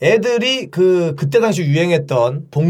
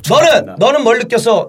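class monitor; 4 semitones higher than usual. Retold or imitated. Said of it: "반장하고 부반장 앞에서".

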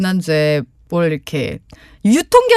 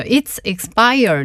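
slow repeat-after-me; much slower than usual. Shown as a demonstration. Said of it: "과거형으로 항상 써줘야".

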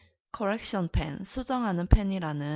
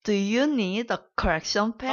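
louder; 2 semitones higher, 7 dB louder, much slower than usual. Pretend. Student asked to repeat it harder, louder. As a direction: Do you need a correction pen? louder and slow, leaning on need. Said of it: "더 세게".

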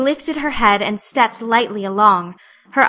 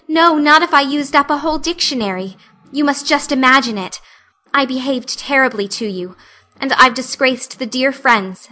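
lightly voiced earnest girl; 3 semitones higher than usual. Anne begging forgiveness from Missus Lynde, lightly voiced earnest pleading. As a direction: pour out remorse like a heartfelt confession. Anne's dramatic apology.

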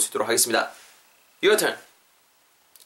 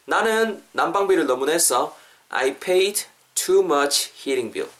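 slow, measured model sentence; slowly; slower than usual. Shown as a demonstration. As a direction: lay it out word by word for learners. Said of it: "천천히 해볼게요". (따라 하도록 천천히)

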